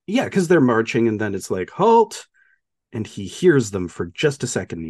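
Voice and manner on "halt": high, loud imitation of an army order; mock shouted command. Officer stopping the marching army, mock shouted command. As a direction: call out a sudden halt order.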